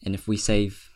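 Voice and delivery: Mithras threatens the king, lightly intimidating voice. Acted. Mithras warns the king, mild menace. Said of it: "as he's talking in this, like, intimidating tone".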